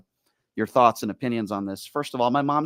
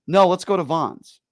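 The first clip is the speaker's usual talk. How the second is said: insistent mom; 7 semitones higher, 7 dB louder, slower than usual. Retold or imitated. Retelling mom's insistent demand.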